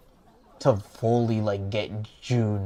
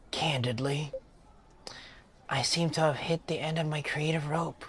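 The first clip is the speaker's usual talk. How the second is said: higher-pitched British character voice; British accent; 4 semitones higher, 4 dB quieter than usual. Acted. Musician confessing a creative slump to a listener, lightly British. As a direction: read it as a downcast British musician. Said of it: "Bro made him British".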